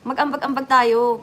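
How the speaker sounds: a mock angry friend snapping no, then slow; half-hearted scolding, slowing down on the second line; imitating an angry friend. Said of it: "Nagalit sa akin". (panggagaya sa galit na kaibigan)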